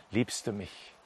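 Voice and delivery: low, soft, falling question; subdued question. Acted. Saddened Peter recalls being asked three times, subdued and soft. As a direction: repeat it quietly, almost to yourself.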